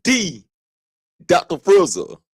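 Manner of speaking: mock grand self-title, tongue in cheek; sarcastic. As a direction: crown yourself with a sly smirk. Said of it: "I'm being sarcastic".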